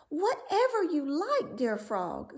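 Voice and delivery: high, breathy eager whisper; eager princess. A narrator's reading. Princess promising the frog anything, high eager whisper. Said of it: "said she".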